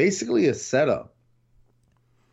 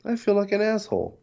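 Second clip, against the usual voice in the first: guilty lament; 9 semitones higher than usual. Retold or imitated. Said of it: "I was like".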